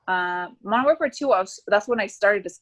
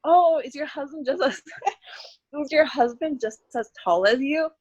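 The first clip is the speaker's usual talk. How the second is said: higher mimicked question, breaking into laughter; nosy people; 6 semitones higher than usual. People asking a single mother about husband, mock-curious. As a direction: imitate a chirpy questioner, laughing partway.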